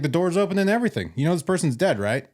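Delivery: lightly acted, high-pitched incredulity; mock incredulous. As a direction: imitate someone pressing staff in disbelief. Retold partner confronting the staff.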